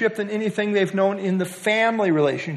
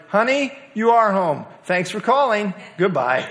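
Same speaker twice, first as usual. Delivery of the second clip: higher-pitched retold dad, dropping to the sign-off; a hint of dad, pitched up at first; lightly voiced dad; 4 semitones higher than usual. Dad answering his newlywed daughter's call home, lightly voiced. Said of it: "The dad responded".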